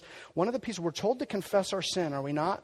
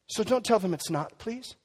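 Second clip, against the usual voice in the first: gentle plea repeated; 5 semitones higher than usual. Acted. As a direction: say it again, gently insisting. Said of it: "repeated plea".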